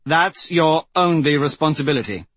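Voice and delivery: put-on high, heated young woman pleading. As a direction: argue hotly, voice pitched high. Aryan arguing with the prince.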